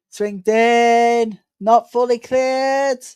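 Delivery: excited commentary. Real, not acted. Live corner kick commentary.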